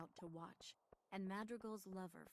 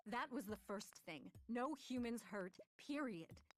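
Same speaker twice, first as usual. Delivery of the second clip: firm insistence; 4 semitones higher, 4 dB louder than usual. Acted. Karoo insists in an argument.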